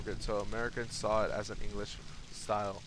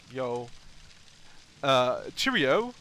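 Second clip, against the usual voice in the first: mock British cheerio, drawn out and raised; British dude; 5 dB louder, slower than usual. Streamer imagining a British dude in America, mock British. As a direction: put on a playful British greeting. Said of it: "British dude in America was like".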